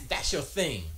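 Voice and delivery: ordinary delivery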